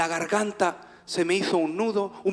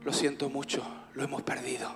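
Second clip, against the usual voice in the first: low, soft retelling of bad news; hushed sad news; 5 semitones lower, 9 dB quieter than usual. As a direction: break it gently, almost whispering by the end. Wife's message of loss. (mala noticia dicha casi en susurro)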